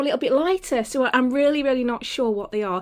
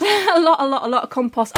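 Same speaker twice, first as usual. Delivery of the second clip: laughing; 3 dB louder than usual. Real, not acted. Laughs at the amount.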